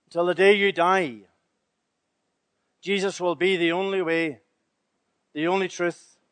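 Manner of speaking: quiet solemn ending; hushed close. Acted. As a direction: let it fade into a hushed vow. Closing hushed affirmation.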